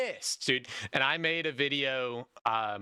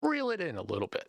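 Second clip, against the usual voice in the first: pleading; 4 semitones higher, faster than usual. Retold or imitated. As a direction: jump much higher, pleading. Retelling own advice to developers.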